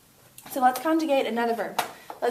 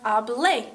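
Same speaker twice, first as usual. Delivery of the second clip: "hablé" with the final é lifted; stress on final syllable; 3 dB louder than usual. Shown as a demonstration. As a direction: punch the é ending of "hablé". Models the stressed ending.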